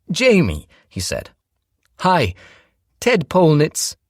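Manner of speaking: smooth charming stepdad covering something; Ted's round tenor. A narrator's reading. Ted introduces himself.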